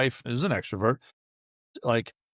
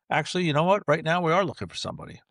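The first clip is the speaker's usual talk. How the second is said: higher, brighter eager client voice; eager yes; 5 semitones higher, faster than usual. Acted. The CMO Sarah suddenly keen, eager. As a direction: switch to an eager, interested yes.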